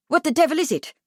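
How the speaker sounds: impatient, high-pitched demand; snapped. A narrator's reading. Kipling demanding the boy's news, snapping. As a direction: demand it with mild exasperation. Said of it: "Kipling snapped".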